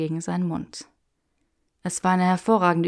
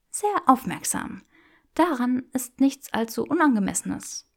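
put-on higher, playful young woman; teasing Hermione voice; 6 semitones higher than usual. Granger teasing Draco in the bookshop, playful and higher. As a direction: tease him with mock refusal.

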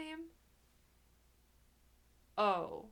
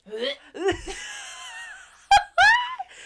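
loud laughing shriek; 16 dB louder than usual. Real, not acted. Bursting out at her own joke.

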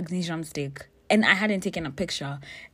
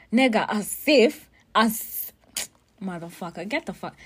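louder, higher, slowed burst of outrage; indignant outburst; 4 semitones higher, 7 dB louder than usual. Real, not acted. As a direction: blurt it out, offended and loud. Outraged at friend's accusation.

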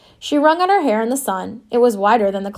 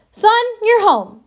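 much higher, louder, slow crowing reply; grandma's triumph; 12 semitones higher, 5 dB louder than usual. A narrator's reading. Grandma tells the painter he's found his room, loud slow crow. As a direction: crow it like you've won the deal.

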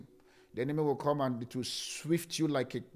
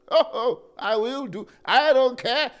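much higher and louder, heated; fierce shout; 8 semitones higher, 10 dB louder, slower than usual. Acted. Pastor shouting that he would defend his wife.

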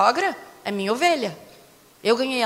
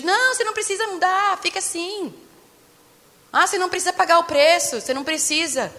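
lightly mimicked coaxing, higher pitch; mock coaxing; 5 semitones higher than usual. Preacher mimics shallow gospel promising no change, mock coaxing. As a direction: imitate a glib, higher-pitched reassurance.

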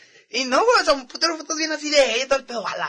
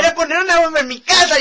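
mock alarmed; 6 semitones higher, 6 dB louder than usual. Joking fear about the bomb.

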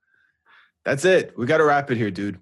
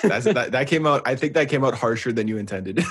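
laughing. Real, not acted. Laughing at harsh remark.

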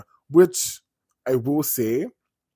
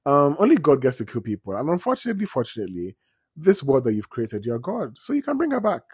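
higher, sing-song unhinged sweetness; sweetly deranged nurse; 4 semitones higher than usual. Retold or imitated. Annie explaining to the author he must revive Misery, sweetly unhinged. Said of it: "And she's like".

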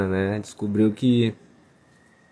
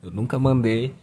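stoned; 2 semitones higher than usual. Real, not acted. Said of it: "tô chapado pra caralho".

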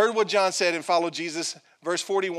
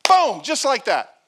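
loud, high emphatic boom; thrilled aside; excited punch; 6 semitones higher, 8 dB louder than usual. Real, not acted. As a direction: slam it home. Excited commentary.

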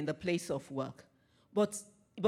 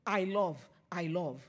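deliberate. Shown as a demonstration. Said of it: "you say very deliberately".

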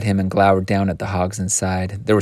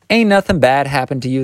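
higher, knowing reassurance; assured; 6 semitones higher, 4 dB louder than usual. A narrator's reading. Old woman reassuring Missus Turpin, assured. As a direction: say it as common knowledge. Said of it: "as if they all knew it".

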